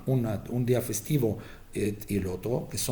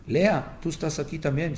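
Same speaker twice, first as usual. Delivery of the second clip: dying father calling; 4 semitones higher than usual. Retold or imitated. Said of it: "llamando en sus nombres".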